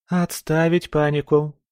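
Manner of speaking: firm, commanding order; categorical. Acted. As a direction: snap it like a drill sergeant. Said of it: "Категорично".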